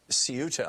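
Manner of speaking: Ceuta in three syllables, stressed on the middle "you"; "Ceuta" with a "see-you" opening; first pronunciation attempt. Real, not acted. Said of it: "or Ceuta, or however you say it".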